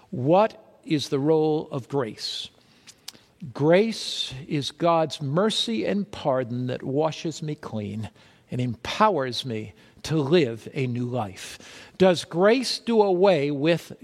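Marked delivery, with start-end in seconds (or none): 0.1-11.6 tender. Real, not acted. Tender point about grace.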